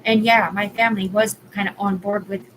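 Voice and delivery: loud, heated outburst; real anger, raising her voice; furious venting, words pushed out loud; angry rant. Real, not acted. Ranting angrily about being set up.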